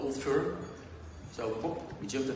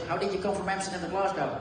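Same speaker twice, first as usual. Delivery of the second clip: quick, higher mock-Glaswegian question; imitated Glaswegian accent; 5 semitones higher than usual. Teammate quizzing the new Dutch arrival, imitated Glaswegian accent. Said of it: "this is the Glaswegian accent".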